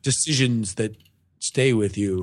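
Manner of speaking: low, hushed brooding hero parody; mock movie-hero monologue. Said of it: "the main character, like".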